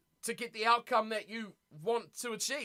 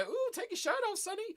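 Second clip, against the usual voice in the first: swooning fans; 11 semitones higher than usual. Retold or imitated. Imitating ladies calling to Sonny, mock swoon. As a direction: coo at him like a smitten fan. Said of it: "all the ladies go".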